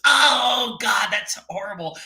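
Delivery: high, loud hammed-up wail; mock pain. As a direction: play a joke patient yelping when touched. Joke patient howls in pain.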